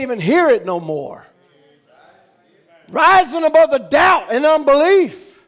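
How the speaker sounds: rising, emphatic pulpit delivery; forceful preaching. Real, not acted.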